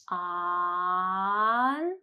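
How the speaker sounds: long drawn-out ah in "On"; held ah. Shown as a demonstration. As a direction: stretch the ah of "On" for a long beat. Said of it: "hold ah for three seconds".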